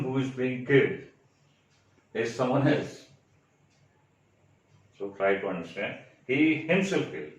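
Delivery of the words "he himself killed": "himself" punched higher in pitch; stress on himself. Shown as a demonstration. Teacher showing students an emphatic pronoun, stress on himself. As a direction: lean hard on the word "himself". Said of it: "you are stressing the word himself".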